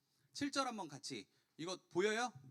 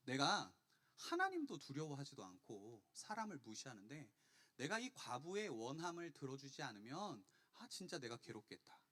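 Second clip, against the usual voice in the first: softer, subdued musing; lightly voiced inner monologue, trailing softer; judge thinking aloud; 3 semitones lower, 5 dB quieter than usual. Unjust judge thinking to himself, subdued and weary of her. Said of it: "불의한 재판장이 이런 생각을 해요".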